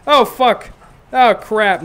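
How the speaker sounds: hammed-up Meredith swearing; mock Meredith curse. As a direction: blurt it out in annoyance. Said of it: "she's just like".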